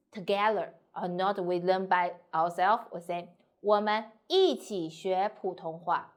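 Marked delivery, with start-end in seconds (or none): 3.4-6.1 一起 lengthened and punched; stress on 一起. Shown as a demonstration. Teacher saying together, not by ourselves, stress on 一起. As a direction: lean hard on 一起. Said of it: "if you want to emphasize 一起".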